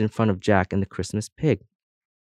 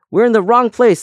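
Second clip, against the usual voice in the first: much higher, louder indignant cry; insistent cry; 13 semitones higher, 8 dB louder than usual. A narrator's reading. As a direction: insist at full pitch, offended. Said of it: "said the first earring".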